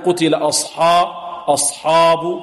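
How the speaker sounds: "أصحاب" with a heavy, dark "hō" on حا; thickened ha. Shown as a demonstration. Teacher warning against heaviness, "أصحاب" with thick ح. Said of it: "بدون تفخيم الحاء".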